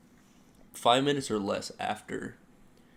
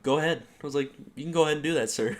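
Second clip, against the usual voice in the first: louder, higher challenging go ahead; defiant dismissal; 4 semitones higher, 4 dB louder, much faster than usual. Retold or imitated. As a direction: dare him to do it.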